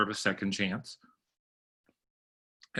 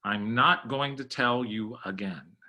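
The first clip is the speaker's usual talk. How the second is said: slow, deliberate warning with weight on "tell"; measured scolding, "tell" given extra emphasis; stress on tell. Shown as a demonstration. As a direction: lean on the word "tell", spacing out the words. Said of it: "a lot of emphasis on the word tell".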